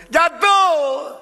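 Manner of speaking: high, loud reply from the pit; drunk man answering. Acted.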